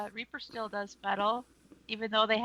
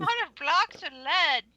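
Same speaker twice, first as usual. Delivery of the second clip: put-on higher old-timer voice; old man voice; 6 semitones higher than usual. Shown as a demonstration. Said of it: "old man voice".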